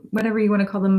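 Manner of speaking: ordinary talk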